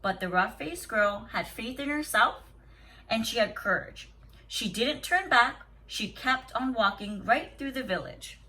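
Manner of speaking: steady storybook reading to a class; story read aloud. Acted. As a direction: read the tale calmly to the children. Teacher reads story aloud.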